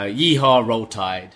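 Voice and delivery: hammed-up cowboy twang; mock Southern drawl; mock Southern yell. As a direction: put on a Southern cowboy cheer. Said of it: "They're just mocking the s- the Southern swag".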